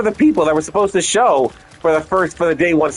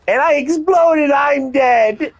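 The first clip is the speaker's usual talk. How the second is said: high outcry; 7 semitones higher, slower than usual. Real, not acted. Dying again in game.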